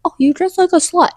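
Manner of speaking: mocking snide put-down; mean comment. Imitating a rude person insulting an outfit, snide. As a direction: sneer it like a catty jab. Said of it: "not in a mean way".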